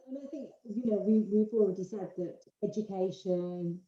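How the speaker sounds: muffled, cutting out audio; bad connection. Real, not acted. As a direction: voice dropping out on a call. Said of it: "You disappeared again".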